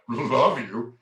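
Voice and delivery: "love you" with a drawn-out, weighted "love"; subtext shown by inflection. Shown as a demonstration. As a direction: stretch "love" for another meaning. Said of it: "That doesn't mean the same thing either".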